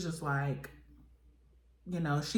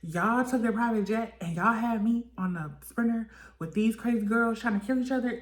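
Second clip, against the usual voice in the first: mock outrage; 5 semitones higher than usual. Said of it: "Biggie is just like".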